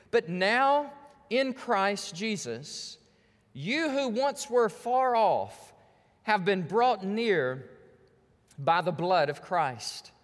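slow, weighty reading of the verse; solemn scripture reading. Acted. Pastor reads the Bible passage aloud to his church, slow and solemn. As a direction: let each phrase of the text land slowly.

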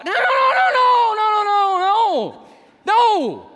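loud, high repeated no. Real, not acted. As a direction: shout it down, no, no, no. Rejecting the lame testimony.

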